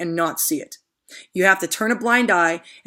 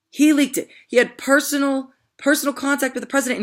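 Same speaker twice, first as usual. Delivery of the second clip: outraged outburst; 7 semitones higher than usual. Real, not acted. Accusing Comey, repeats for emphasis.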